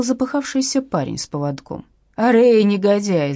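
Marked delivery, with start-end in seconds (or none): 2.2-3.3 angry slow shout at the runaway dog; young man yelling for his dog. A narrator's reading. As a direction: bellow the dog's name. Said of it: "заорал он".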